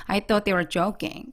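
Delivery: slow demo, "thought they" smooth but not fused; smooth linking. Shown as a demonstration. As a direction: glide from "thought" to "they" without stopping. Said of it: "연결만 부드럽게". ("thought they"를 끊지 말고 부드럽게)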